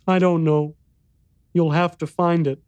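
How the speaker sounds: put-on high, small boy's voice; little boy voice.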